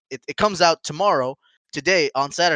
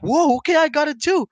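higher, excited retelling; mock excitement; 11 semitones higher than usual. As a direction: act out grabbing it happily. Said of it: "I'm like".

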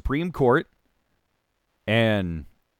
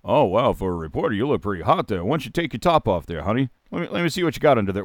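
Howard Stern; 3 semitones lower, much faster than usual. Acted. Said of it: "walked into the studio of one Howard Stern, first thing he'd say".

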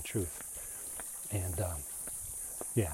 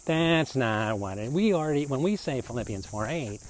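mocking voice. Defenders objecting to the criticism, mildly mocking. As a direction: lightly parody a defensive believer, words stretched. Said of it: "yes, I have my mocking voice on".

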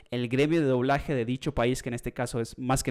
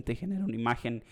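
voice crack; 4 dB quieter, faster than usual. Real, not acted. Podcaster explaining image AI to co-host, voice cracks. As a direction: voice accidentally cracking mid-phrase. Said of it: "se me fue el gallo".

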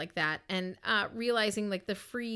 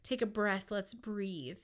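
soft, soothing retold reassurance; hushed voice of a calming mom; calm mother; 3 dB quieter than usual. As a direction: gently talk someone down from panic. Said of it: "her just calmly being like".

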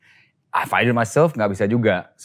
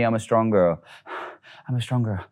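calm coaching; 3 dB quieter than usual. Shown as a demonstration. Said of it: "Say to me".

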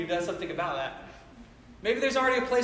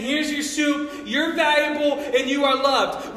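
tender reassurance; 3 semitones higher, 6 dB louder, slower than usual. Pretend.

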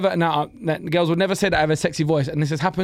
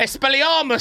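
higher-pitched mock spell-casting; mock Harry Potter; 6 semitones higher than usual. Teasing his friend as Harry Potter, mock incantation. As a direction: call the spell out like a boy wizard.

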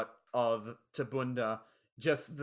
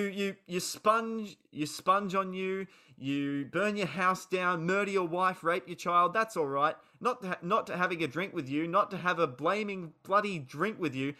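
mock furious rant; 5 semitones higher than usual. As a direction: hurl it back at the locals, slowing on the key words. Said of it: "Grant responds with".

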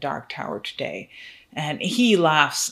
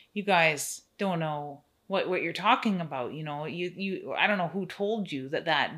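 a hint of a prim, scolding farm woman; Annie Wilkes voice. Herald scolding the guests about their potty mouths. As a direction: scold them like a prudish nurse. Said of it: "comes her herald, Annie Wilkes, and says".

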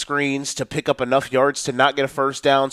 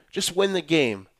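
usual speaking voice

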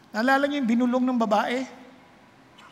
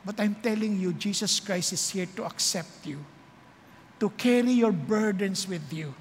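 gentle altar call; 5 semitones lower than usual. Acted. Altar call, soft low delivery. (mahinahon at mababang panawagan)

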